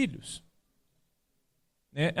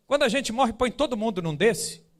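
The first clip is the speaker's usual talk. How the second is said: lightly imitated child's higher question; a hint of a child asking, pitched up at the start; curious child; 4 semitones higher than usual. Son asking about the coffin, lightly imitated child. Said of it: "olhou pro caixão e ele falou assim".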